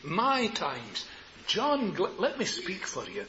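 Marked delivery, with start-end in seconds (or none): 0.0-1.0 slow, measured phrase; said slowly. Shown as a demonstration. Preacher showing the congregation how to say it, slowly. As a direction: draw out each word. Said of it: "Now say it slowly".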